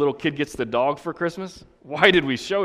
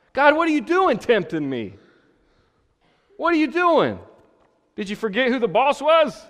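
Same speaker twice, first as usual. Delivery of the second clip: much higher, louder outraged whine at God; indignant complaint; 9 semitones higher, 5 dB louder than usual. Retold or imitated. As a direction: protest to God as if wronged. Tempted man blames God indignantly.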